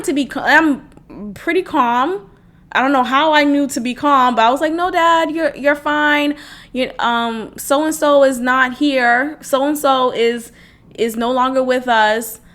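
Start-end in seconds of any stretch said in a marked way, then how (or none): 4.7-12.4 calming dad down. Retold or imitated. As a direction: soothe a frightened father. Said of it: "just trying to calm him down".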